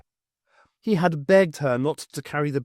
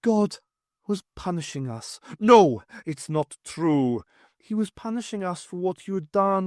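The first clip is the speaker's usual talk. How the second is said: sing-song ghostly wife; 5 semitones higher than usual. Acted. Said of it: "Morag's sing-song voice".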